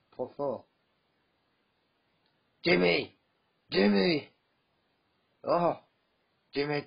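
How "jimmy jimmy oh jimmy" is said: louder, higher call across the house; angry call for Jimmy. Acted. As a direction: shout his name to get his attention. Calling brother loudly.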